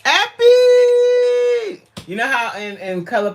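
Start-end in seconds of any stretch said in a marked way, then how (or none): 0.0-1.8 high loud call of the name. Real, not acted. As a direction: shout the name across the room. Calling out to viewer.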